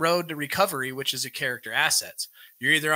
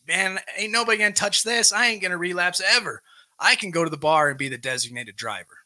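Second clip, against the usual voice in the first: mock cocky boast, starting higher; false pride; 4 semitones higher than usual. Speaker voicing someone two months sober, false pride. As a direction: play an overconfident newcomer bragging. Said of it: "False pride".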